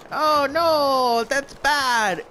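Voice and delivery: high, loud hammed-up dismay; mock alarmed Chinese. The Chinese reacting to MacArthur's push, hammed-up high alarm. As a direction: squeak out mock panic as the Chinese. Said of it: "the Chinese were like".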